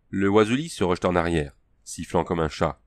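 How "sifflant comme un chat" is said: ordinary delivery, nothing marked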